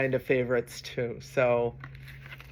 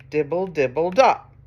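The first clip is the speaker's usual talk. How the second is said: rain patter; 4 dB louder than usual. Acted. Reader reviewing the rain sound with children, pattering. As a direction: patter like raindrops. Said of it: "That was the rain".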